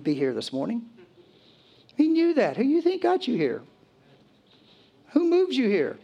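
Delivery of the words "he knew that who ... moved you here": much higher and louder, fervent; preaching climax. Real, not acted. Preacher urging listeners that Jesus brought them, fervent and loud. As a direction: rise to a fervent peak, urging.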